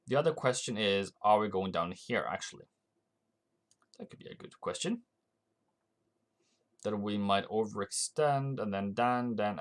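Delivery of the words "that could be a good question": whispered aside. Real, not acted. Aside to himself about the market.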